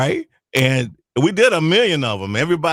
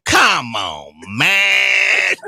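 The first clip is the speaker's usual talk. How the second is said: pleading caller; much slower than usual. Retold or imitated. Prank caller begging.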